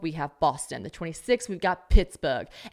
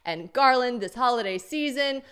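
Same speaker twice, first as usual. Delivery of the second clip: hype intro; 3 semitones higher, 5 dB louder than usual. Acted. Hyped intro of co-host.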